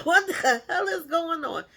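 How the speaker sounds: high, loud, disbelieving; shocked outburst. Retold or imitated. Retelling his own stunned reaction to the kiss demand, high and loud. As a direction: blurt it out in shock.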